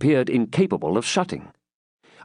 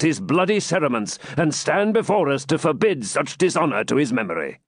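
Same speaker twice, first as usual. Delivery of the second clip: raised, emphatic refusal; a touch of outraged guardian; lightly voiced Cedric, stern; 3 semitones higher than usual. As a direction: forbid it with solemn indignation.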